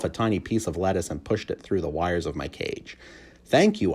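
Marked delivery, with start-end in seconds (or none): 3.4-3.9 squeaky. A narrator's reading. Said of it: "I squeaked".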